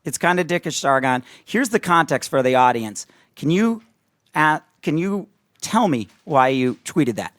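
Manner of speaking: a hushed, halting take on a reluctant questioner; playing Thomas. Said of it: "let me play Thomas for a second".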